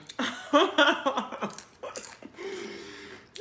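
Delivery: airy giggling laugh; high breathy laugh. Real, not acted. Laughs at own bit.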